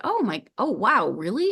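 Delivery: high, bright gasp of delight at a gift; delighted surprise. Retold or imitated. Pilgrim surprised by her friend's gift, delighted high squeal. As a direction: squeal it like you can't believe she's giving you something.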